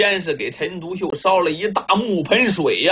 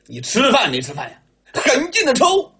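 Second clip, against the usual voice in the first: angry; 4 semitones higher than usual. Acted. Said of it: "陈独秀气了".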